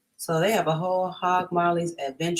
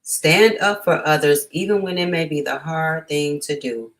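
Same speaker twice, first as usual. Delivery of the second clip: emphatic read; 6 dB louder than usual. Acted. Reading the book's call to action.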